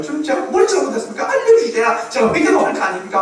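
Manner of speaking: high-pitched mock pleading; acted protest of someone begging to know; retold tearful plea. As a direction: plead upward, imitating a man crying to God. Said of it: "막 울었다는 거예요".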